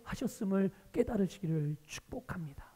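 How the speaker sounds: hushed, whispered benediction; whispered blessing. Real, not acted. Pastor blessing the congregation, a soft whisper.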